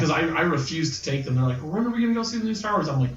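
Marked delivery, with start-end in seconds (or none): 1.6-2.9 imitating kids. Kids asking about the movie.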